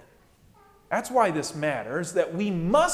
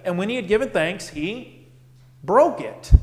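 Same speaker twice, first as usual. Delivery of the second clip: liturgical recitation. Shown as a demonstration. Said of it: "You've heard them hundreds".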